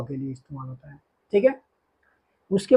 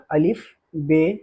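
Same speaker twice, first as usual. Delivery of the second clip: slow letter recitation; 2 semitones lower, slower than usual. Shown as a demonstration. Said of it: "अब हमने कहाँ तक पढ़ लिया".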